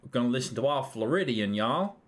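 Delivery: lightly put-on American accent; mock American accent, only slightly different. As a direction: try a bit of Southern American y'all. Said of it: "don't do an American accent".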